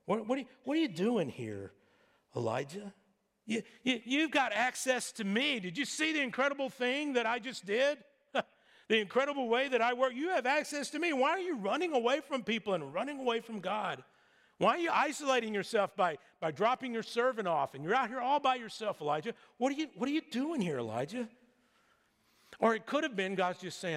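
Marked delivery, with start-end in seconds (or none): 0.1-19.3 higher, lively, pressing questions; mild incredulous challenge. Acted. God confronting Elijah for running away, mild incredulous challenge. 19.6-21.3 quick, high-pitched repeated question; incredulous questioning. Acted. God challenging Elijah alone in the cave, incredulous questioning.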